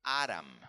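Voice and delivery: "Adam" stressed on the first syllable; English pronunciation. Shown as a demonstration. Teacher showing how English says the first man's name, English pronunciation of "Adam". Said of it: "En inglés se dice".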